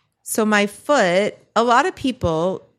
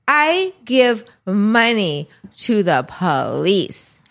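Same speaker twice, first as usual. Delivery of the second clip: put-on drunk woman insisting. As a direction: drag it out like a drunk demanding. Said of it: "she just keeps going".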